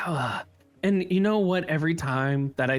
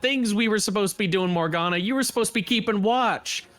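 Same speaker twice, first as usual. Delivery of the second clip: a slightly raised, hard-edged street tough; tough Lyra; 3 semitones higher than usual. Acted. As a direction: lay down the law with the bat. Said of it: "And Lyra, uh, goes".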